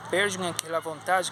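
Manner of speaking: normal talking voice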